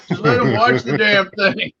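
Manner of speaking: high, strained mock yell; retold screaming. Weirdo roofer screaming at dad over the movie, retold yell. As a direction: imitate a worker yelling back at the boss. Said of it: "he just started screaming at my dad".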